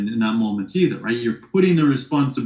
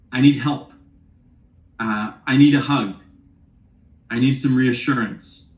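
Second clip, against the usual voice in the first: vulnerable ask. Shown as a demonstration. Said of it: "You feel the vulnerability in that".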